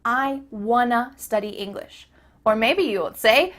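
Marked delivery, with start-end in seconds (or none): 0.0-2.1 WANNA run together with a weak "uh" ending; casual, linked "wanna"; reduced wanna. Shown as a demonstration. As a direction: say "wanna" as one reduced word. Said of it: "changes to a".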